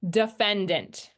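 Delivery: Defendant said slowly, middle reduced to schwa; slow demo. Shown as a demonstration. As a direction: say Defendant slowly to show the shift. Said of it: "It's defend, but defendant".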